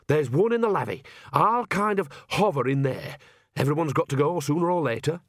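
lightly voiced granny hatching a plan; Nanny Ogg, scheming. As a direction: lay out the scheme matter-of-factly.

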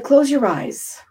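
calm meditation cue; guided meditation. Acted. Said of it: "So he said".

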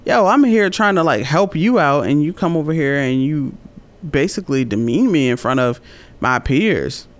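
retold disbelief with an affronted edge; dumbfounded. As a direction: protest at being treated unfairly. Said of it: "I was so dumbfounded".

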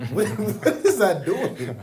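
high, loud laugh through the words. Real, not acted. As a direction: laugh while asking it. Mocking a tweet, laughing.

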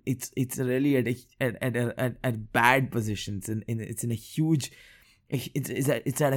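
stumbling, repeating words while stuttering; real stutter, words catching and restarting. Real, not acted. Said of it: "I don't know why I'm stuttering so much today".

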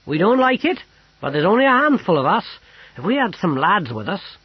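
loud, high-pitched soldier's voice; gruff old army cook. A narrator's reading. Army cook briefing his sergeant friend, loud and blunt. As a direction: report it forcefully, old-soldier style.

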